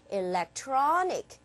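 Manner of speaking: slow "electronic" with TRON lengthened; deliberate, syllable-clear "electronic"; stress on TRON. Shown as a demonstration. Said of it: "자, 어디에 있을까?".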